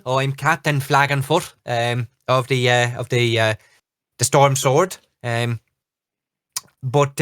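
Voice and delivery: flustered halfling captain in a light Irish brogue; bumbling, friendly captain with a touch of brogue. Acted. Captain Flagonfoot introduces himself to the party, in a light Irish brogue. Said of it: "a very thick brogue comes out".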